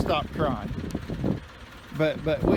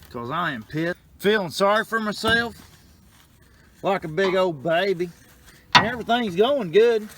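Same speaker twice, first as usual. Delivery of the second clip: ranting; 3 semitones higher than usual. Real, not acted. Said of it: "And I'm ranting, and I'm pissed off".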